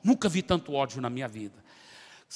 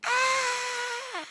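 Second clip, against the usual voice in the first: sharp high cry, much higher; demon scream. Retold or imitated. Demon leaving the woman's body, high shriek. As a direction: let out a piercing demonic shriek. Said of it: "com um grito".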